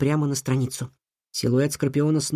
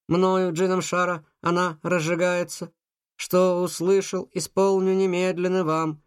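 droning robot voice, like an appliance; 3 semitones higher than usual. Acted. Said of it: "голосом робота произносит заклинание". (голос робота)

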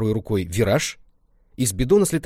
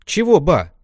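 put-on higher, louder young girl voice; girl's reply; 8 semitones higher, 8 dB louder, slower than usual. Lenka answers her grandma, nervous girlish reply.

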